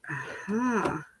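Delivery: put-on slow childish liar liar chant; mock schoolyard taunt; singsong taunt. Vlogger taunting the owner who lied, in a slow childish chant.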